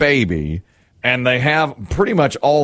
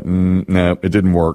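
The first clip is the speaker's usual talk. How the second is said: doubtful father; 5 semitones lower than usual. Retold or imitated. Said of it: "He's like".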